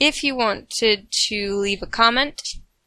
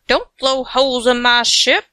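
southern woman; 5 dB louder than usual. Acted. Reader doing pirate line as a Southern woman, light Southern accent. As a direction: play it like a Southern lady. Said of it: "talking like a southern woman".

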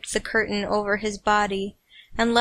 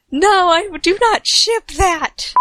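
higher, louder protest; exclaimed protest; 8 semitones higher, 5 dB louder than usual. Real, not acted. Reader protesting to listeners, loud and high. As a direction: fire back a denial. Outburst about shipping.

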